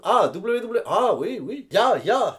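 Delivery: a lightly done Korean accent, mock commentator chatter. Mocking the Korean commentators at their table, a light Korean accent. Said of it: "Mon accent coréen est pas très bon".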